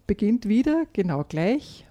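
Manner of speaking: put-on calm storyteller reading a children's tale; gentle read-aloud storytelling; story narration. A narrator's reading. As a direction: read it like a bedtime story for kids.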